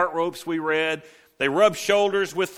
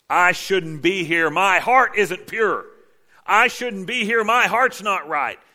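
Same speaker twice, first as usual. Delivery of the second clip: anguished confession; 5 semitones higher, 5 dB louder, slower than usual. Retold or imitated. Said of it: "Isaiah's confession voiced".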